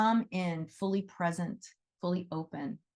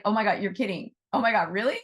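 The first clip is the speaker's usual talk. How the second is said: a disbelieving gasp, pitched up and louder; surprised; 3 semitones higher, 5 dB louder, faster than usual. Retold or imitated. Volunteer hearing the fox never fed from the owner, surprised. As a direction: act out the volunteer's amazed disbelief. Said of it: "And she was like".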